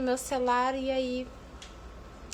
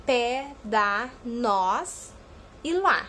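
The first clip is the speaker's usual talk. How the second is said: each word said slowly and apart; "pé", "dá", "nós", "lá" stated one by one; stressed monosyllables; much slower than usual. Shown as a demonstration. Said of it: "Os acentuados são". (monossílabos tônicos bem marcados)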